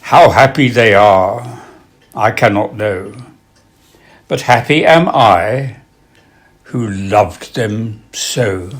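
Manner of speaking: slow, wistful verse, lifting on the memories; poetry recitation. Acted. Reciting a club member's late poem to an audience, slow recitation.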